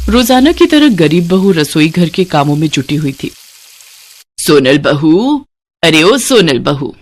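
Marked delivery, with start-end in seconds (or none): 4.4-5.5 calling out. Acted. Mother-in-law calling for daughter-in-law. 5.8-7.0 calling out. Acted. Mother-in-law calling again, impatient.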